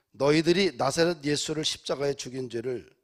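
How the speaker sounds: loud, pointed preacher's charge; sharp accusation. Retold or imitated. Peter accusing the crowd over Jesus' death, sharp accusation. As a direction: point out their guilt forcefully, as Peter. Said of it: "아주 날카롭게 지적을 하자".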